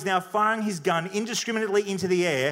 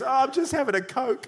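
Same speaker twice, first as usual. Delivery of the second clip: higher-pitched put-on voice; small innocent reply; 6 semitones higher than usual. Son answering his dad from the ditch, high and innocent. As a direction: answer lightly, pitched up above your own.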